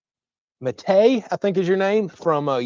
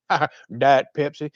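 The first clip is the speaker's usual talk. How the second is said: imitated giggling. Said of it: "she just literally started giggling".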